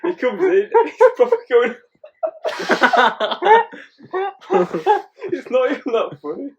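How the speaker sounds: high, breaking up with laughter; real helpless laughter. Real, not acted. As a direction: try to tell it while cracking up. Cracking up while telling the story.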